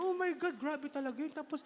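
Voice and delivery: high, disgusted squeal about snoring; gossiping churchgoer. Acted. Gossip telling Jesus about a snoring tentmate, high and disgusted. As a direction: shriek with mock disgust.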